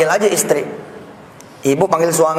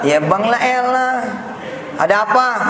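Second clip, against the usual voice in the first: drawn-out, higher mock-wifely grumble; exasperated wife; 4 semitones higher than usual. Wife answering husband's call, mock exasperated. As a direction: stretch it out like a put-upon spouse.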